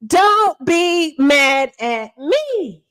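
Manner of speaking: very slow, savoring each word; mock apology. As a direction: drag it out to rub it in. Refrain, very drawn out.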